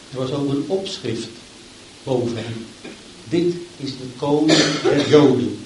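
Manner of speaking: solemn, measured Bible reading; scripture reading. Acted. Preacher reading the crucifixion to the church, solemn. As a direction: read the passage with gravity. Reads Luke 23 aloud.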